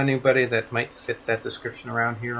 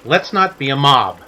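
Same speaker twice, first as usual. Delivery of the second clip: calling for order; 2 semitones higher, 6 dB louder than usual. Acted. Man halts a crowd.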